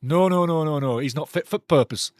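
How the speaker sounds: a light Yorkshire lilt on "He's not fit for purpose"; lightly voiced Yorkshire accent. Shown as a demonstration. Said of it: "Said in a good old Yorkshire voice".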